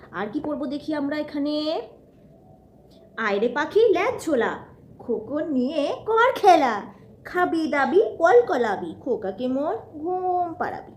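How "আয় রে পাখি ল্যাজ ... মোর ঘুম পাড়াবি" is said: reciting nursery rhyme. Acted. Mother reciting rhyme to toddler.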